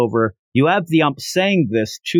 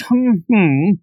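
higher two-note amused "hmm"; knowing hum; 6 semitones higher, 4 dB louder than usual. Retold or imitated. Watching lady stands up and leaves, knowing hum.

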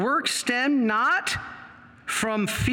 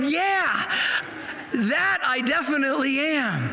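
higher, eager yes; a touch of eager teen, voice raised; eager young man; 6 semitones higher than usual. Retold or imitated. Boy to priest, eager and higher.

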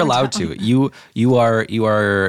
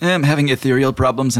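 genie; 6 semitones higher than usual. Acted. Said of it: "He's like".

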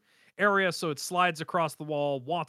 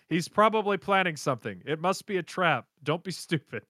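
mild mock yell; 2 semitones higher than usual. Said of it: "yells out to Webber".

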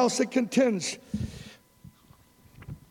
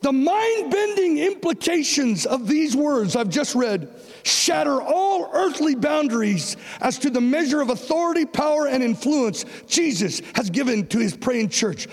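rising to a shout; 6 semitones higher than usual. Shown as a demonstration. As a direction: preach it again with full force. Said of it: "Let me say it again".

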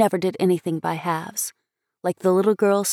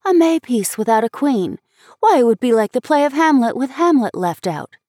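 higher, lively disbelief; incredulous schoolgirl; 5 semitones higher, 5 dB louder than usual. A narrator's reading. Schoolmate protesting a play without queen, incredulous. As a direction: object in amused disbelief.

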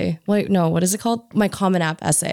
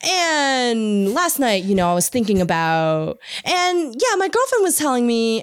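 rambling radio DJ; 6 semitones higher than usual. Retold or imitated. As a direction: ramble on like a late-night radio DJ. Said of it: "the radio D J cuts in like".

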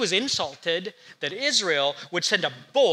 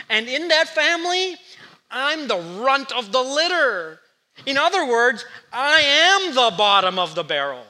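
Gideon's protest; 3 semitones higher, 4 dB louder than usual. Retold or imitated.

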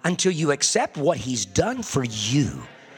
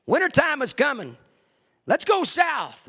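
crow voice; 10 semitones higher, 3 dB louder than usual. Retold or imitated. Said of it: "and say".

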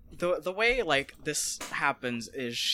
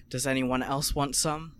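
slow flat robotic voice. Retold or imitated. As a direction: say it like a cold robot. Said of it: "a kind of robotic voice".

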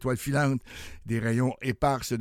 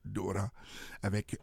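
hoarse from a cold; rough, hoarse voice from flu; 4 semitones lower, 6 dB quieter than usual. Real, not acted. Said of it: "ça se peut que ma voix rauque de temps en temps".

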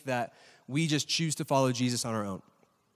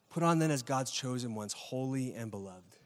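soft tender reading; 3 semitones lower, 5 dB quieter than usual. Acted. Rereads verse softly to friends.

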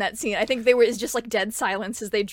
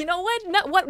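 high-pitched, raised-voice bravado; worked-up shout; 8 semitones higher than usual. Acted. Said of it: "I'm just shouting".

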